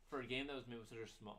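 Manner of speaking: talking while chewing ice; words around a mouthful of ice. Real, not acted. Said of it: "let me finish chewing this ice".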